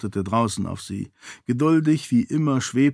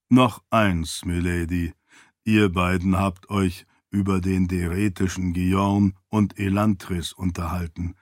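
lower, even-toned attendant voice; deferential servant; 3 semitones lower than usual. Acted. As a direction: advise your lady in a low, composed voice.

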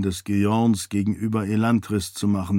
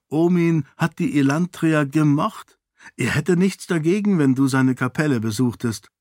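put-on higher-pitched young lady's dialogue; lightly voiced heroine; 5 semitones higher than usual. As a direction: lift the pitch for an earnest heroine.

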